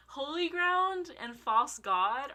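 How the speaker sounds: slow, laughing incredulous question; laughing in disbelief. Real, not acted. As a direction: laugh through the song titles. Laughing disbelief at song pairing.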